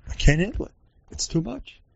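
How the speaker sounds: high, fading mock whine; overwhelmed complaint. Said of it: "we talk like that".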